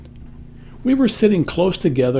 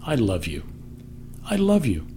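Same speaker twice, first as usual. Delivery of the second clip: gentle whisper; 6 semitones lower, 6 dB quieter than usual. Pretend. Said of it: "whispers those three words to you".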